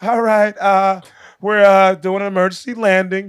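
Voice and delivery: halting announcement, trying not to sound panicked; retold tense calm with hesitations; suppressed panic. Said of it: "she's trying not to panic".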